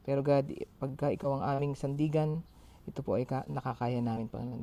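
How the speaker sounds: earnest spoken prayer. Acted. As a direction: pray sincerely to God aloud. Leads an opening prayer.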